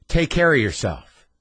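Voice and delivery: slow, weighted farewell; heavy with implication; loaded tone. Retold or imitated. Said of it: "that sounded loaded to me".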